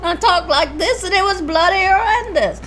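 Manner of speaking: put-on Cockney accent. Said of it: "No, that's not Cockney".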